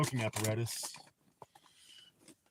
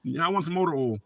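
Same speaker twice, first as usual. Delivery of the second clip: mock Earl; 3 semitones higher than usual. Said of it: "said Earl".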